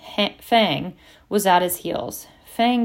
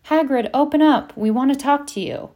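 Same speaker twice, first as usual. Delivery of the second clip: raised, higher voice calling out; calling through door; 7 semitones higher, 5 dB louder than usual. A narrator's reading. Harry calling to Hagrid through the shut door, raised voice. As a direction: call to someone shut inside.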